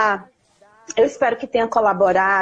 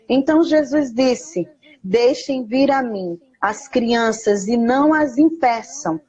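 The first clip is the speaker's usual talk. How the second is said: measured scripture recitation; reading scripture aloud. Real, not acted. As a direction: read the Bible verse deliberately, phrase by phrase. Reads a Bible verse aloud.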